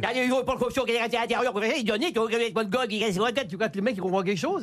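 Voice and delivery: rapid garbled northern patois; mock northern French accent. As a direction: gabble it in a mock Somme accent. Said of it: "tu imagines un Texan qui arrive".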